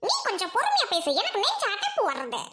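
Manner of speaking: whiny sobbing plea, pitch swooping; acted crying; tearful. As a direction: complain through tears, choked up. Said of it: "ஏன் அழுவுற?".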